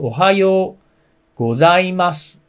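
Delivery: ohayo gozaimasu low go, high zaima, low su; Japanese pitch accent. Shown as a demonstration. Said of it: "go is a little low, zaima is a little high".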